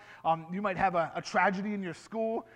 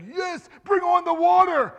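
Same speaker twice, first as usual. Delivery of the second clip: mock excited, much higher and louder; eager cheer; 9 semitones higher, 11 dB louder than usual. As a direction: cheer it like a thrilled kid. Children's sermon, acting eager disciple.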